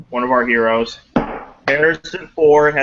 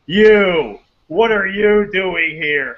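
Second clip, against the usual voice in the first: mock angry Harrison Ford; 4 semitones higher, 3 dB louder, slower than usual. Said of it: "gets angry, he goes".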